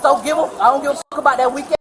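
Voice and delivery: quick, agitated venting; fast, heated rant; worked-up rush. Real, not acted. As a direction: rattle it out without stopping for breath. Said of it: "Slow down".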